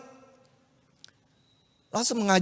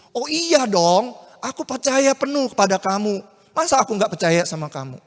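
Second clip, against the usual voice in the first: eager Yusuf; 3 semitones higher, 5 dB louder than usual. Acted. Yusuf eagerly reassures Maria.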